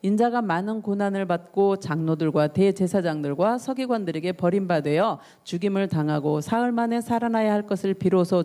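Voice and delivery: measured, even Bible reading; solemn recital of scripture. A narrator's reading. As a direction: read the passage aloud formally and evenly. Reads the Bible passage aloud.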